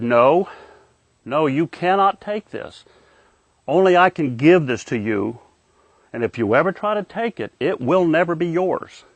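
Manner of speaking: mildly stern, measured pronouncement; lightly voiced stern authority; stern tough love. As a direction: lay down the rule firmly, drawing out key words. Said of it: "but he was stern".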